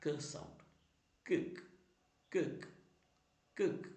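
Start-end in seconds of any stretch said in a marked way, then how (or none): 0.1-0.2 "k" as a short "kuh"; letter sound k. Shown as a demonstration. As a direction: say "k" as its phonics sound, not "kay". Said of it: "pronounce ചെയ്യുന്നത്".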